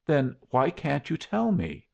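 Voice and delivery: high, insistent question; demanding. A narrator's reading. Young woman pressing him to reveal the threat, high-pitched demand. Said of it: "demanded Miss Cullen".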